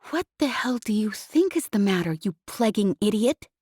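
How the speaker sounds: scornful scolding; angry woman. Acted. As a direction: tear into him. Jez voiced angrily.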